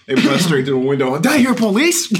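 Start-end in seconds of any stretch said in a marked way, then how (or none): 1.2-2.1 mock cop voice. Acting out cops bursting in.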